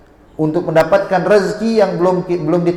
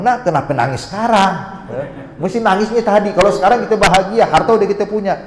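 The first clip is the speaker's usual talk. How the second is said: higher, insistent voice of an imitated mother; puzzled chiding; 5 semitones higher than usual. Mother asks child why cry now they're rich, puzzled chiding. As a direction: lightly scold in a raised pitch.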